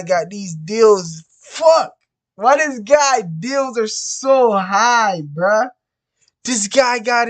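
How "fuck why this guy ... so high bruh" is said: sharp high outburst; a real frustrated yelp at the deal price; frustrated curse. Real, not acted. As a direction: blurt it out in frustration.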